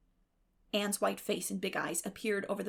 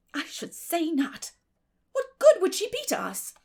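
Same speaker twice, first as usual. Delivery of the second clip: scornful; 8 semitones higher, 8 dB louder than usual. Acted. Marilla to Matthew, scornful and much louder. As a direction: scoff at the idea.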